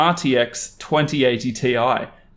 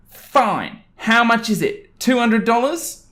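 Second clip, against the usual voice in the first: higher, slow, petulant mother voice; entitled mum; 10 semitones higher, slower than usual. Acted. Entitled mum telling the employee to make the customer pay, high and petulant. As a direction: insist like a spoiled grown-up.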